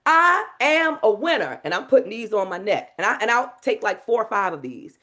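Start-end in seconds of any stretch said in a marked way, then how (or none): 0.0-1.6 high, slow triumphant declaration; proud mantra. Shown as a demonstration. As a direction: claim it like a champion. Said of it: "demo of the mantra".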